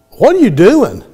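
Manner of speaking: high, loud astonished question; surprised. Retold or imitated. Brother catches his sister eating fries, astonished. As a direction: blurt it out in disbelief.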